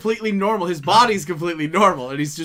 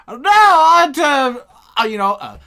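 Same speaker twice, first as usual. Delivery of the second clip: mock anchor introducing the next segment; hammed-up news anchor; newscaster voice; 6 semitones higher, 5 dB louder than usual. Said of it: "it's like".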